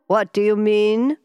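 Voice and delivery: slow, loud frowning question; frowning demand. A narrator's reading.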